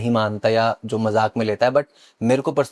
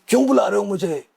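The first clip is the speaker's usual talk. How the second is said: retold possessed yell; 6 semitones higher than usual. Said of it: "मैं इतनी तेज चिल्लाया".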